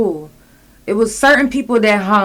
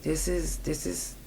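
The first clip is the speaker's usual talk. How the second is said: on the verge of tears; 2 semitones lower, 10 dB quieter than usual. Retold or imitated. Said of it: "and I just started crying".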